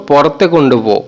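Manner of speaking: পরতে কুণ্ডুপো repeated slowly, rising at the end; slow it down for learners; careful slow repeat of পরতে কুণ্ডুপো. Shown as a demonstration. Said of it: "আমরা বলবো".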